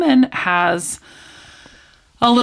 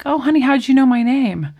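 higher-pitched, curious retold question; lightly voiced waitress; 6 semitones higher than usual. Waitress asking a little girl about her name, lightly puzzled. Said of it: "the waitress comes over".

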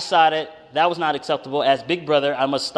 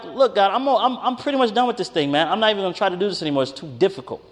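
higher, exasperated quitting on God; frustrated outburst; 5 semitones higher, faster than usual. Retold or imitated. Brother in the basement telling God he quits, exasperated. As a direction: vent like you're fed up and done. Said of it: "So I'm like".

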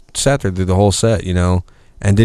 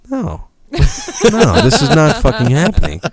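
laughing disbelief; 8 semitones higher than usual. Retold or imitated. Retold disbelief at trailer studio.

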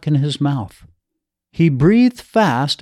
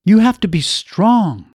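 implored; 5 semitones higher than usual. Acted. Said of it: "she implored him".

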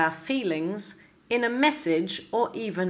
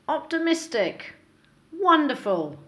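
bright, higher, eager replies; upbeat answers; 5 semitones higher, 3 dB louder than usual. Shown as a demonstration. Teacher modelling upbeat replies to how are you, eager. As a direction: answer with real enthusiasm. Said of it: "try using some of the following".

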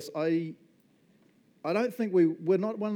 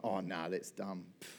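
dismissive brush-off; 7 semitones lower, 9 dB quieter than usual. Retold or imitated. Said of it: "Nigel could have been like".

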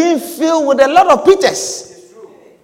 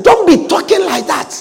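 Peter rebuking; 5 semitones higher than usual. Acted. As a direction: remind him what we gave up. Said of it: "he said".

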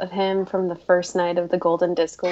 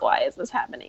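whispered dread; 2 semitones lower, 5 dB quieter, faster than usual. Retold or imitated. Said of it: "the whole time I'm like".

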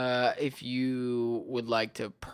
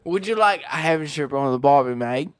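put-on Australian accent; 7 dB louder than usual.

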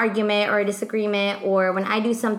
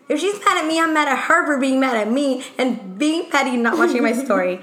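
higher-pitched, acted petty indignation; retold huffy comeback, pitched up; indignant rant; 4 semitones higher than usual. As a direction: rattle off the grievance, mock-offended.

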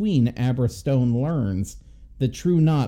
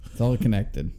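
conspiracy theorist voice; 3 semitones lower than usual. Pretend. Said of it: "why are we talking like that?".

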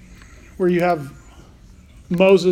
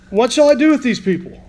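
desperate plea; 5 semitones higher than usual. Acted. Moses pleading to God.

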